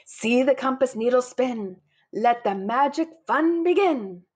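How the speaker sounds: rhythmic, emphatic spell; building rhymed spell; magic incantation. A narrator's reading. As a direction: chant it like a storybook wizard. Granddude recites the magic spell.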